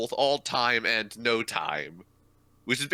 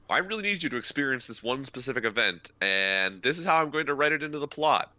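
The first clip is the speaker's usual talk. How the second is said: exasperated author; 4 semitones higher than usual. Retold or imitated. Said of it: "the author saying".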